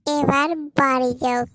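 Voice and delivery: put-on loud sneer at the boyfriend as he is sent home; loud taunt. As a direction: shove him out the door with a loud jeer. Second sister slaps him too.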